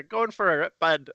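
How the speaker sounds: light stoner-style Canadian put-on; pretend Canadian accent. Canadian imitating Canadians who put it on, mock Canadian accent. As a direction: play up a slangy Canadian accent. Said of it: "Canadians pretending like they're talking".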